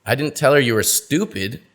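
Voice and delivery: "stupid" stressed. Shown as a demonstration. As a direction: hit "stupid" as if another word. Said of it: "change the meaning of the same sentence".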